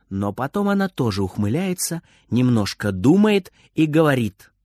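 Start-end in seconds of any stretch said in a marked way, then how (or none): none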